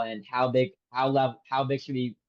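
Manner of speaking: stumbling, restarting the words; stuttering. Real, not acted. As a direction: trip over the start of the question. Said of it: "I don't know why the fuck I'm stuttering".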